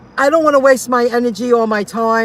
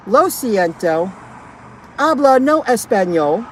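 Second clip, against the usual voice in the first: mock Spanish reply; slower than usual. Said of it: "That's what I'm gonna say".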